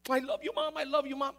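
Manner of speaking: put-on a kid overflowing with relief; grateful child gushing. Son thanking mom for not telling dad, gushing. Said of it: "I kissed her like a hundred times".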